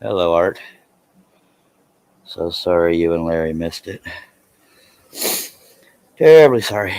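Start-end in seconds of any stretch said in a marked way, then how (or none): 6.2-7.0 mock posh apology. Mock formal apology to viewers.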